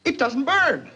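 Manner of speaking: rising from amazed to very high, slow disbelief; growing astonishment. Acted. Paint fails to catch fire.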